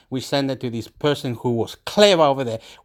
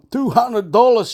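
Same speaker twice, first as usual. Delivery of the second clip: incredulous echo; 7 semitones higher, 4 dB louder than usual. Retold or imitated. Retold reaction to the amount.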